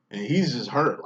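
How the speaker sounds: usual speaking voice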